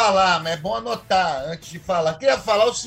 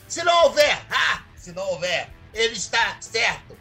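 discurso teatral; 2 semitones higher than usual. Acted. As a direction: declaim each conditional with dramatic pauses. (oratória dramática, com explosões de voz)

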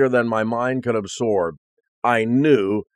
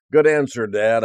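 playful teasing, pitched up. Retold or imitated. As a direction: tease him gently. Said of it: "I teased him".

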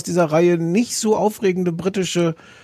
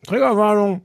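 raised, announcing tone; announcer voice; 6 semitones higher than usual. Shown as a demonstration. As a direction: proclaim it like a warning sign. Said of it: "Und los".

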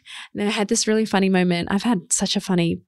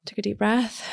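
softer, breath-led recovery; hushed, composed reset; calming breath; 5 dB quieter than usual. Retold or imitated. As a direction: say it softly as if settling yourself. Retelling calming herself with breath.

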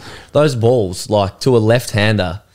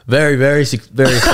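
forced, laughing enthusiasm; upped excitement; 5 semitones higher than usual. Shown as a demonstration. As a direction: pump up the excitement. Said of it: "Sorry, I'll up it".

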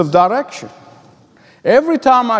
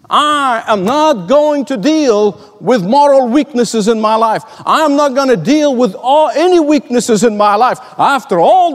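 raised, emphatic mock refusal; higher-pitched hammed-up insistence; defiant self-justifying; 4 semitones higher than usual. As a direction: act out a stubborn believer insisting on an excuse. Acted self-justifying Bible reader.

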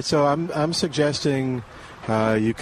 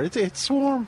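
high-pitched mock of someone feeling the heat; imitating pepper-struck voice; 11 semitones higher, slower than usual. Co-host teasing the pepper taster's voice, high mock-strained imitation. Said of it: "his voice is kinda bringing back there".

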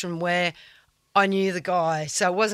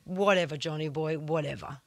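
dismissive; 3 semitones lower, 5 dB quieter than usual. Retold or imitated. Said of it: "I just said".

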